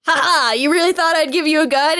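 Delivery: mocking John. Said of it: "John's like".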